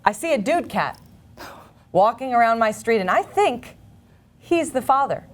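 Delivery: lightly performed, earnest deadpan reading with pauses; naive ad reading. Acted. Reading a child cats ad to the co-host, earnest deadpan delivery. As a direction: read each odd phrase as if it made perfect sense. Reads a Craigslist ad in character.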